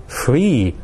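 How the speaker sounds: "free" lengthened and emphasised; stress on FREE. Shown as a demonstration. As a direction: hold FREE a moment before going on. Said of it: "I did emphasise this word".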